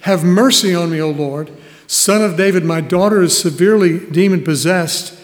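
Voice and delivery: understated cry for mercy; crying out in appeal. Acted. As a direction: read her appeal with mild urgency. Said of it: "cried out to him".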